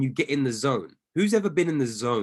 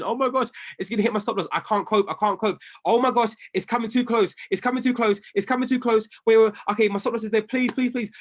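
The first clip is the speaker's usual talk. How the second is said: higher, fast, frantic mock panic; imitating panic; 5 semitones higher, faster than usual. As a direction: act out a trader losing it over a reversal, hammed-up. Retold trader panicking over reversal.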